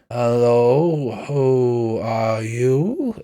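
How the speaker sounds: put-on slurred, very slow drunken greeting; drunk knight. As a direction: drag it out like a sozzled old knight. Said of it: "it sounds a little drunk".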